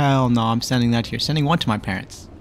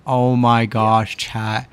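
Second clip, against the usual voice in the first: real exasperation; 4 dB louder, much slower than usual. Real, not acted. Streamer reacting to trolling.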